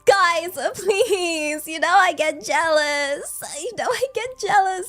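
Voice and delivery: playful pouty whine; jealous whining. Pretend. Streamer jealous of a jar, pouty whining. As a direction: plead and sulk, stretching the last words.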